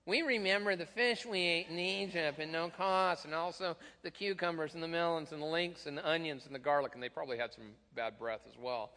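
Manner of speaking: a hint of whining Israelites, lightly voiced; whiny voice. Preacher reading Israelites' complaint in a whiny voice. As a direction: complain like a bored child. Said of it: "You almost have to read this in a whiny voice".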